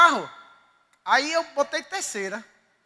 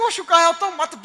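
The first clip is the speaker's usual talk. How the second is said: quick, louder, mock-indignant "Oxi"; defiant insistence; 4 semitones higher, 6 dB louder, faster than usual. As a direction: brush her off, half-laughing, fast and loud. Insisting to wife in car.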